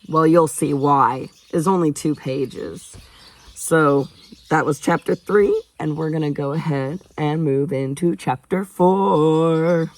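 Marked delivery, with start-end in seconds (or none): 3.5-9.9 playful announcing. Real, not acted. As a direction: draw out the last word like a show host. Announcing the next chapter, drawn out.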